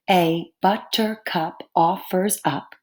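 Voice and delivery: A BUTTERCUP OFFERS UP in slow even beats; counting syllables. Shown as a demonstration. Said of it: "count with my fingers as I talk".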